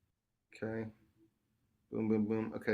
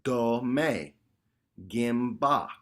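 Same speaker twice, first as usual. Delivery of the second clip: sample syllables; much slower than usual. Shown as a demonstration. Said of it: "we're gonna do two syllables".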